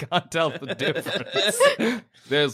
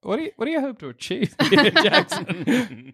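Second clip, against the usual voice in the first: incredulous daycare worker; 4 semitones higher than usual. Retold or imitated. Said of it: "and they're like".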